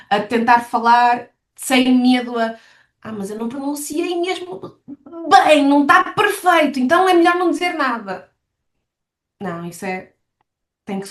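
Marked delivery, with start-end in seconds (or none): 3.0-8.3 mock fretting, pitched up as it goes on; lightly acted self-doubt, rising higher; fretting learner, imitated. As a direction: imitate a learner giving up in a fluster. Voicing an anxious learner's excuse.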